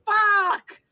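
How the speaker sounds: loud, high panicked curse; panicked yell. Retold or imitated. Jack panicking as the beast eats the Gangrel, yelling. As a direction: blurt it out in a panic.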